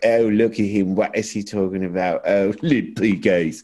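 imitating a sneering English pundit; a lightly done English accent, mocking; English accent scoffing at an American. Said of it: "That's a really good accent".

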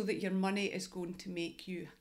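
choking mid-sentence; words catch in the throat. Real, not acted. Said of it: "Sorry, I'm choking there".

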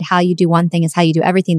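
rattled off fast in passing; fast offhand quote; quick quote. Retold or imitated. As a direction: toss the line off quickly. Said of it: "I wanna say it again".

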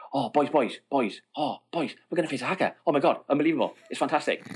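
rapid, breathless rush of excitement; fast excited captain. Retold or imitated. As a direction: gabble it like an overexcited mate. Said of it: "when he talks quickly".

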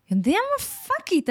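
put-on high-pitched Russian-accented Hebrew. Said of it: "איזה מבטא רוסי יצא לי עכשיו".

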